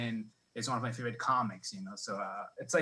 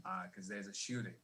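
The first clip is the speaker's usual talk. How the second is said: urgent hushed warning; 5 semitones lower, 9 dB quieter than usual. Retold or imitated. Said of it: "I'm like".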